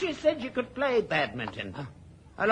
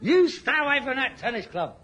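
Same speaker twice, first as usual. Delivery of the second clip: ordinary delivery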